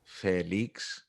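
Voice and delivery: careful textbook English; stiff, careful classroom address; classroom style. Shown as a demonstration. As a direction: pronounce it deliberately, like a classroom drill. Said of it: "I'm gonna say it in classroom style".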